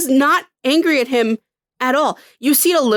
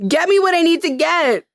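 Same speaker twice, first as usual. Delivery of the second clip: bored villain; 4 semitones higher than usual. Retold or imitated. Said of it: "villain voice, exasperated".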